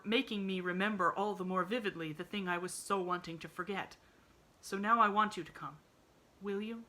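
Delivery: a sad man pleading gently; lightly played lonely Mr Pendleton asking; lightly voiced sad invalid. Sad man asks the girl to visit, mild pleading.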